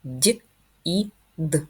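each sound of "дід" said apart: "Д", "і", "д". Shown as a demonstration. Teacher sounding out "дід" for pupils, sound by sound. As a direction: split "дід" into its separate sounds. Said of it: "Скільки звуків має слово дід?".

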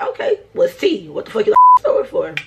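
high, loud, fast laughing disbelief; incredulous outburst. Retold or imitated. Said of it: "I'm like".

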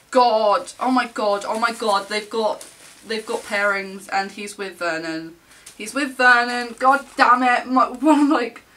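loud, thrilled outburst; excited gushing. Real, not acted. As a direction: gush loudly, overcome with excitement. Excited at finding favourite photo cards.

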